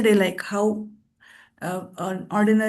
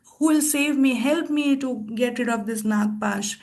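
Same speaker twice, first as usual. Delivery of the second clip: higher, pleading cry for help; imitating Ram crying out to be saved; a half-acted plea, pitched up; mock loud crying; 3 semitones higher than usual. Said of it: "crying loudly".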